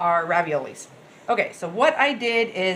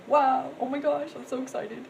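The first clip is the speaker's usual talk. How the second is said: excited quote; 5 semitones higher than usual. Retold or imitated. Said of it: "I was like".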